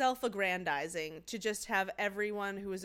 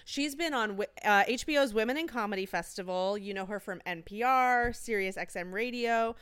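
announcer voice; 4 dB louder than usual. Acted. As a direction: introduce her like a game-show host. Announcing the guest on air.

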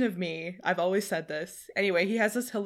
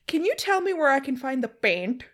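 put-on Indian accent slipping out on PAINT; higher voice, Indian-accented final PAINT; Russell Peters; 6 semitones higher than usual. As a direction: let an Indian accent slip on the last word. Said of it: "an Indian accent that slips out".

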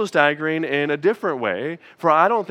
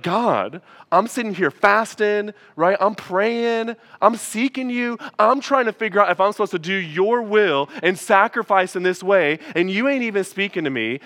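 higher, rising exasperation; student fed up after sixty-three days, higher exasperated; frustrated complaint; 3 semitones higher than usual. Retold or imitated. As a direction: vent at God, mock-indignant. Frustrated complaint to God retold.

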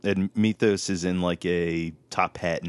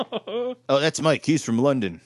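mock intro; 5 semitones higher than usual. Imitating Joe introducing Mike.

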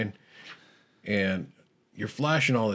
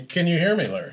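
calling out; 7 semitones higher than usual. Real, not acted. Shouting into a cup phone.

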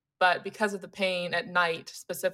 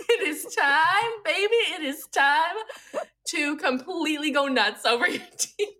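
hammed-up brain voice; 7 semitones higher than usual. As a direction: tease yourself like a gleeful inner voice. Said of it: "my brain will decide".

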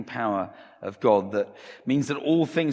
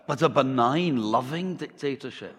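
measured Scottish delivery, pitched up; Scottish accent; 4 semitones higher than usual. Acted. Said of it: "replies the pastor".

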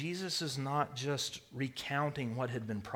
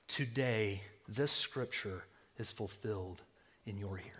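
hushed quote; 5 semitones lower, 7 dB quieter than usual. Acted. Quoting Jesus's solemn declaration.

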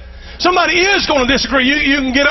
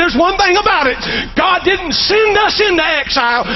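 Ezekiel's triumphant shout; 6 semitones higher than usual. Acted. Ezekiel rallies the exiles by the river, triumphant shout. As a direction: ring it out like a defiant prophet in exile.

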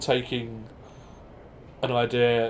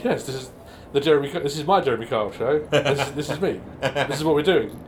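talk show host; 3 semitones higher, 4 dB louder than usual. Retold or imitated. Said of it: "He had this".

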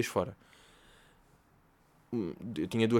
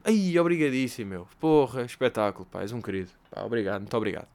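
mock gushing thanks. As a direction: fake politeness, thanking too much. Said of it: "fazer só tipo". (agradecimento exagerado e falso)

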